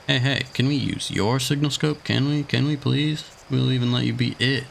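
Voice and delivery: put-on high, pleading little kid voice; eager kid. A kid begging the astronaut for the scope, high and eager. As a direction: beg like an excited child.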